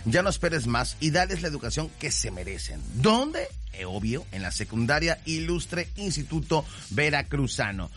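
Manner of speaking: upbeat announcer pitch, selling hard; radio ad read. Acted. Radio host pitching a school to listening parents, lively ad read.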